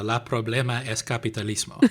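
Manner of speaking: put-on shouted meme line in a Spanish accent; a Spanish meme slogan yelled out. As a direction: belt out the meme in mock Spanish. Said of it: "As the meme goes".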